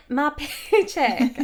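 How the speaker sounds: laughing through a Yorkshire paycheck; breaking up in a put-on Yorkshire accent; mock Yorkshire accent. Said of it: "I'm gonna stop doing this accent".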